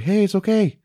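a hint of a dopey hero shrugging it off; lightly mocked forgiveness. Host mocking Mark Wahlberg forgiving Optimus, light high voice. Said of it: "Mark Wahlberg's like".

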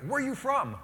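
high bright question; mother asking. Retold or imitated. Mother and daughter quizzing the priest, high mock voice. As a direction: chirp it like the visiting mother. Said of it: "and they, like".

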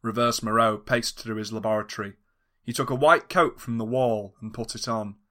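plain reading voice

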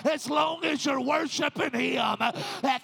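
full-force preaching. Acted. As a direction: preach it hard to the church, building. Preacher exhorts church at full force.

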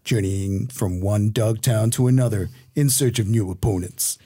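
lightly voiced trailer narrator. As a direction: read it like a film trailer. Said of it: "do the trailer voice".

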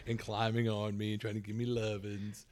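wrestling a licking puppy; holding down a pet. Real, not acted. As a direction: talk while a puppy climbs on you. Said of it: "He's struggling with the puppy right now".

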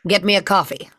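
curt commanding captain; Captain Janeway voice. Pretend. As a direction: bark out the coffee order. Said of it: "let me see if I can pull something out".

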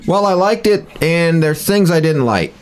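high, slow critic voice; film critic impression. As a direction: answer as a pompous TV critic. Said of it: "What did you think, Roger?".

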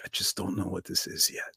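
soft, unhurried fatherly calm; a quiet, patient old dad who won't be rushed. Retold or imitated. Elderly dad soothes panicked son, soft and unhurried.

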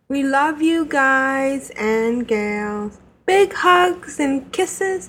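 slow, tender farewell; warm sign-off. Real, not acted. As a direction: stretch it out lovingly. Signing off a fan letter.

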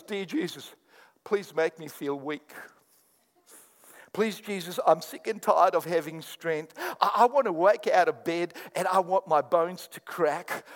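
a hint of a whiny prayer, pleading God for weakness; mock pleading prayer. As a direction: ham up a silly prayer asking for weakness. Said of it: "None of us pray like this".

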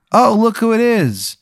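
high, loud mocking sneer of a bully; bully taunt. Bully sneering at the player he once teased.

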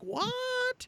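very high-pitched incredulous what; retold disbelief. Host retelling reaction to weird news story, mock astonishment. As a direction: squeal it in exaggerated disbelief. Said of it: "I was like".

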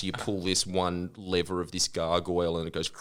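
whispered secret-passage tale; whispered spy-story aside; conspiratorial whisper. Retold or imitated. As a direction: hush it like a secret. Secret entrance fantasy whisper.

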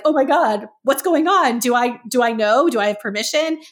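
a rabbi caught off guard, mock panic; imitating flustered rabbi. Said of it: "be like".

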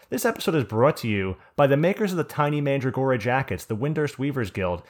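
put-on hammy old-time ad announcer voice; old radio announcer. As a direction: read it like a vintage radio sponsor spot. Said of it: "we have a sponsorship we have to shout out".

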